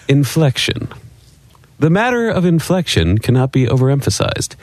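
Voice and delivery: grand, over-inflected textbook reading; old radio announcer read. Acted. Cohost reads the beginners' book in announcer style. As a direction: read it like a vintage broadcasting manual. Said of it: "who used to read radio ads".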